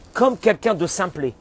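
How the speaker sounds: slow, plain words like a simple man; simple person's way. Shown as a demonstration. Rabbi showing students how to speak simply, slowly. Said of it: "il faut parler comme quelqu'un de simplé".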